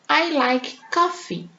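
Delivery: slow, clear example; teacher example, unhurried; slow model sentence. Shown as a demonstration. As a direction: read it slowly for the class. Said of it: "Então, se eu digo".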